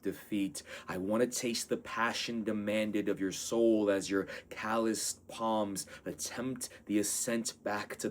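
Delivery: slow, earnest spoken-word reading; poem recitation. Acted. Poet reciting to the sweet dreamer, earnest and measured. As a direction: declaim it like a prayer to a dreamer. Reads his poem aloud.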